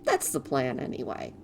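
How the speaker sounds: cheerful little helper, quick; christmas elf. Acted. Voices Gidwin's dialogue.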